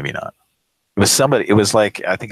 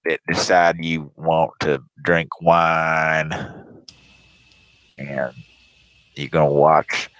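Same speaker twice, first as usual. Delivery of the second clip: mock ignorant caller; slower than usual. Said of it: "'cause he".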